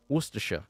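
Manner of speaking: Worcestershire as WUSS-tuh-shuh; pronunciation demo. Shown as a demonstration. Streamer showing it's not hard, Worcestershire pronounced WUSS-tuh-shuh. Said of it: "learn how to say".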